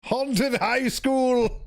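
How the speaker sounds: high, very slow spooky cry; spooky announcer. Acted. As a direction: drag it out like a ghost story. Spooky exclamation.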